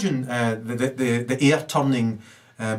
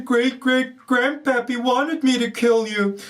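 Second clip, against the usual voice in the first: higher, slowed, put-on sinister figure; mock villain voice; 11 semitones higher, slower than usual. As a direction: ham up a menacing descendant. Voices an imagined killer.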